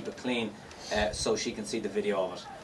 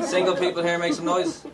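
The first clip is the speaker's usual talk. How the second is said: loud, higher call to the room; crowd hype; 5 semitones higher, 3 dB louder than usual. Real, not acted. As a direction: whip up the singles. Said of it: "hypes the crowd".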